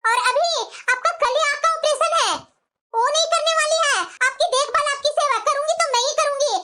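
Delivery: mildly angry, pitch held high; irritated. Acted. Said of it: "यही सबसे मुझे चिढ़ लगती है".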